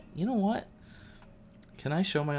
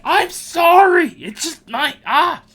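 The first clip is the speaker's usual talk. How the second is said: high, loud, slow panicked sorry; squeaky apology; 10 dB louder, slower than usual. Retold or imitated. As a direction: squeal the apology then gasp. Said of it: "I'm like".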